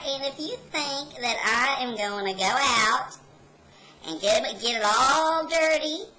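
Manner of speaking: put-on high, stern old grandma; scolding grandma voice. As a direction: scold like a strict granny. Grandma scolding in retold story.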